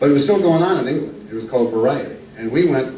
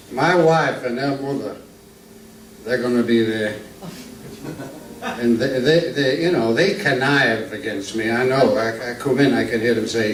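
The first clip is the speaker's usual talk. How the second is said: lightly voiced Archie Glenn; 4 semitones higher than usual. Introduced old northern comic telling jokes to the crowd, lightly voiced. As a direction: ease into a genial old music-hall comedian.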